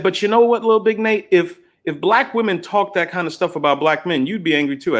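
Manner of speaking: a hint of an indignant woman; retold woman's objection. Retold woman's objection, higher pitched.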